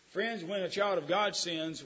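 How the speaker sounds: ordinary talk, nothing marked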